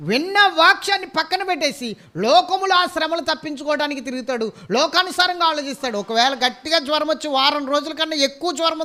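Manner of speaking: preacher pressing the congregation about dry churches; fiery preaching. Acted. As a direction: preach it out with full force. Preaching at full force.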